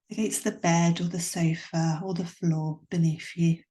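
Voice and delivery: calm, unhurried relaxation guidance with long pauses; guided meditation. Acted. Guiding a listener through Yoga Nidra for headaches, calm meditation voice. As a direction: gently lead the listener inward, leaving room between phrases.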